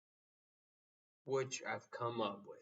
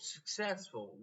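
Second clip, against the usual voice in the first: 1 sarcastic air quotes; 5 semitones higher, 4 dB quieter than usual. Shown as a demonstration. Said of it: "quote unquote".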